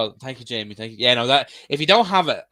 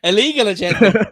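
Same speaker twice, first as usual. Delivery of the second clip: excited; 9 semitones higher, 8 dB louder than usual. Real, not acted. Repeated jokingly, higher.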